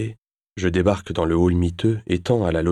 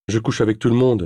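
provocative; 5 semitones higher, 4 dB louder than usual. Acted. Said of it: "dis-je pour le provoquer".

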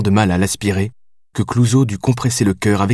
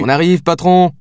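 high-pitched, hurried interruption; cutting in; 9 semitones higher, 4 dB louder than usual. A narrator's reading. Lieutenant cutting off the captain's orders, interrupting. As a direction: break in on the boss's tirade. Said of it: "la coupa Diaz".

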